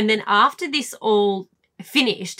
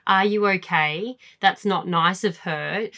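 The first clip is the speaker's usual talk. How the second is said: caring parent. Retold or imitated. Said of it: "they just want you to go".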